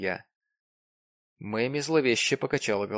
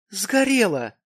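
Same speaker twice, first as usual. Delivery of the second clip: shocked echo; 9 semitones higher, 7 dB louder, slower than usual. A narrator's reading. Mamie echoes the narrator's news in shock. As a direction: voice jumps high and loud on Сгорело. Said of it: "отозвалась Мэми".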